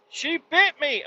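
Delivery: imitating a daughter's high, whiny complaint; a little girl tattling in a high voice; whiny child. Daughter complaining to dad that the dog bit her, whiny. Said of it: "She's like".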